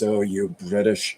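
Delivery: lightly imitated grand British accent. Mimicking an actress in Downton Abbey, in a grand accent. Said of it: "the grand accent that she tries".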